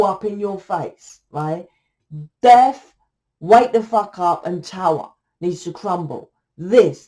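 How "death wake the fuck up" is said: sudden loud call of a dramatic card; loud wake-up call. Real, not acted. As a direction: bark it to wake them up. Reading a dramatic card spread.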